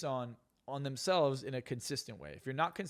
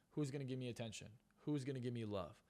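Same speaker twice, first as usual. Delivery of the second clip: softer imitation of someone feeling neglected; mock self-pity; 2 semitones lower, 8 dB quieter than usual. Imitating depressed people who want attention, softly self-pitying. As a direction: drop the volume for a mock plea.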